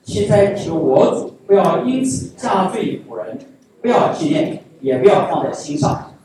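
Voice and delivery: measured, slow Bible reading; reading scripture aloud in church, slow and formal. Acted. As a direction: read the passage like a solemn lesson. Reads a Bible passage aloud.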